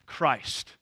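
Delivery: Christ set apart and drawn out; a slow, emphasized Christ; stress on Christ. Shown as a demonstration. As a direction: say Christ slowly, with deliberate weight. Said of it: "I emphasize each word".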